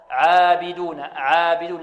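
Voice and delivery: عابدون with a thin, light عا; unthickened عا in عابدون; light tarqiq. Shown as a demonstration. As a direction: keep the long a of عابدون light and fronted. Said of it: "كذلك مرققة".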